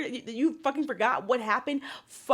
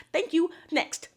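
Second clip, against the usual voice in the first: sassy; 5 semitones higher than usual. Real, not acted. Mic-drop after verdict.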